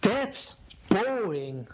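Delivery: drawn-out, slow and bored; mock bored. Shown as a demonstration. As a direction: sound dull on purpose. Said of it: "talk in the same voice".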